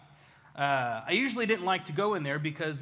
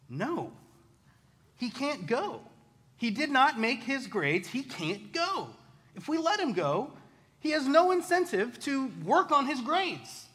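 stern dad; 8 semitones higher than usual. Retold or imitated. Strict dad refusing the dance.

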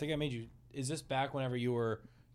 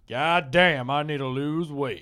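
slow, half-hearted Asian accent bit; attempted Asian girl accent; much slower than usual. Shown as a demonstration. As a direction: drag it out in a loosely faked Asian accent. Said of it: "I can do a good Asian girl".

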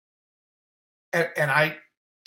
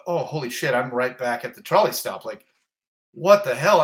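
shocked realization; 6 dB louder than usual. Retold or imitated. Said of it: "I go".

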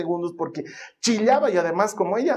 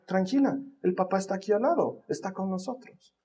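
hushed, gentle comfort; soft reassuring; 6 dB quieter than usual. Retold or imitated. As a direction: soothe a little sister quietly. Daughter soothing her sister.

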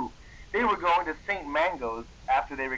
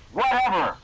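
louder, higher mock yell; hammed-up angry yell; 6 semitones higher, 5 dB louder than usual. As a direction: fling it back like a sulky goth. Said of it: "I yelled angrily".

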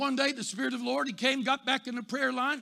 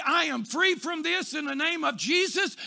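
bold declaration; 3 semitones higher than usual. Retold or imitated. Smoker declares freedom aloud.

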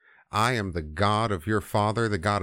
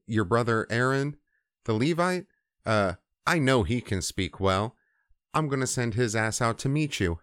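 retold exasperated ordering about; fed up. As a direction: lay down the plan with thinning patience. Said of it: "the Lord's just fed up".

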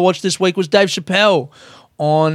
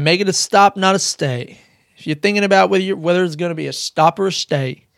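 put-on higher, half-managed take on McConaughey's American accent; attempted McConaughey accent; 3 semitones higher than usual. Quoting actor's advice to visitors, attempted McConaughey accent. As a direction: have a shaky go at an American celebrity accent. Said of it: "I can't do the fucking accent".

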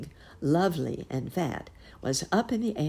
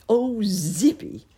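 loud whisper; 7 semitones higher, 6 dB louder, slower than usual. A narrator's reading. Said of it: "whispered Uncle Wiggily out loud".

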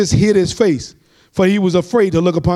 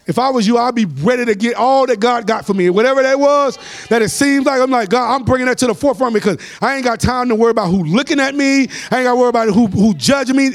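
higher, driving sermon delivery; fervent preaching; 3 semitones higher than usual. Real, not acted. Preacher urging the congregation to press their way, fervent preaching. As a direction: preach it hard, drawing out the last phrase.

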